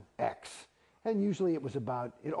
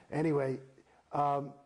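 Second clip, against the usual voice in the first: usual speaking voice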